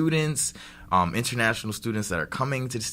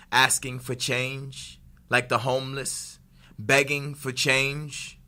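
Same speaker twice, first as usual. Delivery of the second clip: slam poetry recitation. Shown as a demonstration. Poet reciting his protest poem to the interviewer, rhythmic slam delivery. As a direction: perform it like at a slam, every line landing. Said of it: "grace us with a little bit more poetry".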